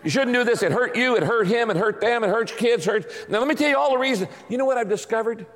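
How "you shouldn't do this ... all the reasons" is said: mock scolding sermon. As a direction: lecture her on every sin, half laughing. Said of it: "I'd pull out my eight-point sermon on adultery".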